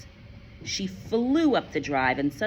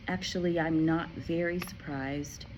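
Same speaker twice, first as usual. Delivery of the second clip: calm teacher. Acted.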